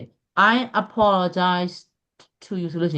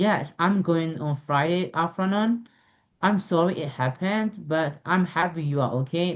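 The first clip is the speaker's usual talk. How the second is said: slow, careful reading with clear ups and downs; dialogue reading; much slower than usual. Shown as a demonstration. Teacher reading a dialogue to students, slow and deliberate. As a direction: read aloud slowly so learners hear the intonation.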